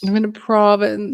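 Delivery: posh, words barely leaving the teeth; through gritted teeth. Pretend. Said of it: "talk through your teeth like they do up in Palm Beach".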